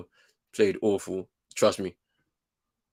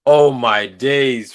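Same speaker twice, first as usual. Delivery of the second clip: disbelief; 10 dB louder, much slower than usual. Real, not acted. Reacting to a blunder.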